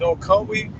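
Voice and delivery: very high, slow wheedling voice; very high slow mocking imitation of a pleading person; whiny pleading mimic. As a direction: squeak it out like a pleading whinger. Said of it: "and they said".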